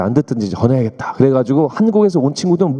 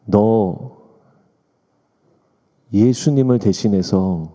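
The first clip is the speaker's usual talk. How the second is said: retold divine message; 3 semitones lower, slower than usual. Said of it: "성령께서 저에게 말씀을 주시더라고요".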